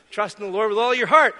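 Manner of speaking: mildly projected overheard quote; retold loud voice. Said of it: "he's not the quietest kid on the block".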